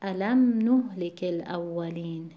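الم نهلک الاولین slowly, with "nuh" stressed; alam NUH-likil-awwalin for الم نهلک الاولین. Shown as a demonstration.

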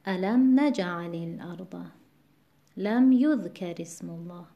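الم نجعل الارض، لم یذکر اسم الله with the linking "i" light; NAJ-alil-ard, YUDH-karismullah, in الم نجعل الارض، لم یذکر اسم الله; measured recitation of الم نجعل الارض، لم یذکر اسم الله; stress unchanged by linking. Shown as a demonstration. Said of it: "در هر صورت".

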